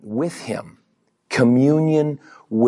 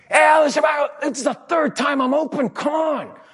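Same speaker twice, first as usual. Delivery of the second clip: frustrated teammate yell; 12 semitones higher than usual. Retold or imitated. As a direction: yell for the ball you keep not getting. Teammate yells for the ball.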